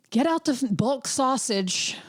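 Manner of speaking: high, drawn-out huffy mutter; a cook grumbling at her own chores. Retold or imitated. Cooking angry before Christmas, huffy and slowed.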